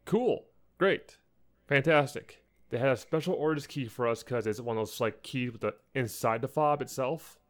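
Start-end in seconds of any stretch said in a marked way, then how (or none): 0.1-2.4 sarcastic cool. Retold or imitated. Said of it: "I'm like".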